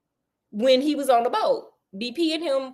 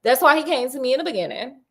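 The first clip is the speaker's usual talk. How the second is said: pop collar swagger; faster than usual. Retold or imitated. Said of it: "Okay, pop collar".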